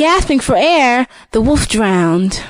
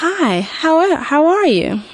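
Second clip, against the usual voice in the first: sly wolf voice; 6 semitones higher than usual. Acted. Wolf greets Golden Hood.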